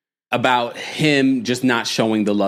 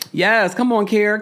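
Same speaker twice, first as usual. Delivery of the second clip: mock cheering; 11 semitones higher, 3 dB louder, slower than usual.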